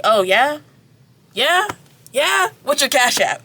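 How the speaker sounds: high mocking rising yeahs; sarcastic haggling. Girl teasing the prince for payment, mocking rising voice. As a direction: needle him with each rising yeah.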